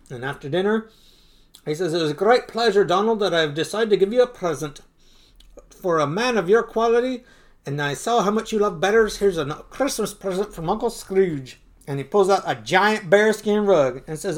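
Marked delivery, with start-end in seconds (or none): 1.9-11.6 higher, emphatic speechmaking; lightly voiced proud gift-giver; Uncle Scrooge, grand. Uncle presenting Donald a Christmas gift, mildly grand delivery.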